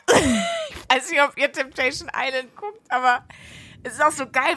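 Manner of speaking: high, laughing, slowed. Real, not acted. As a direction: talk through giggles. Laughing, higher voice. (lachend, mit höherer Stimme)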